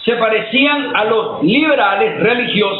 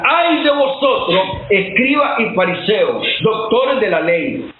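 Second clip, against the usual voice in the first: stern condemnation; 2 semitones higher than usual. Retold or imitated. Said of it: "cuando condenó a la gente de su tiempo y decía".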